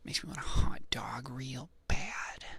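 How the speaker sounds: slow, half-whispered celebrity impression; drawn-out impersonation, partly whispered; Jennifer Coolidge. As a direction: stretch it out in the impression. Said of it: "I need to, like, do it softer".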